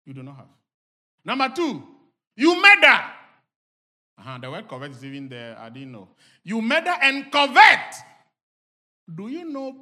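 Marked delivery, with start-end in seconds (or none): 1.2-3.0 high, punched shout; preacher's shout. Real, not acted. Preacher hammering scripture home to the congregation, shouting. 6.4-7.9 loud, high declaration; preacher's shout. Real, not acted. Preacher repeating the verse to the congregation, shouting it.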